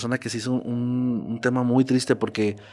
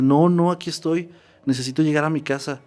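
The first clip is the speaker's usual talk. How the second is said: put-on ghost girl insisting; 5 semitones higher than usual. Dead Lizzie reassuring her friend in the dream, higher eager insistence. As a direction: insist brightly, higher pitched, that all is fine.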